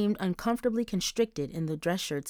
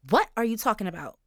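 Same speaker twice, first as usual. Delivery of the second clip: shocked squeak; 3 semitones higher, faster than usual. Acted. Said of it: "Charisse squeaked".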